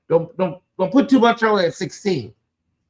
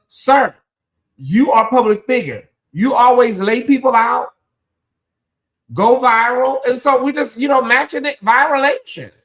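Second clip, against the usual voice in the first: getting worked up and higher; high excited rant; 7 semitones higher than usual. Real, not acted. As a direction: pitch climbing, building up steam. Rising pitch, excited rant.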